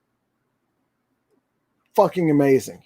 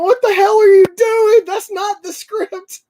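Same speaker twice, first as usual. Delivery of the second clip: Agent Coulson; 5 dB louder than usual. Retold or imitated. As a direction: play the flustered agent losing it as the hero goes off script. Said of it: "Agent Coulson's in the background going".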